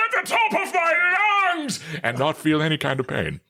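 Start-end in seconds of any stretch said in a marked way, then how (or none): 0.1-1.8 very high, full-throated theatrical scream; Brian Blessed. Shown as a demonstration. Voice actor proving he can scream all day, screeching bellow. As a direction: let it rip in a hammy screech.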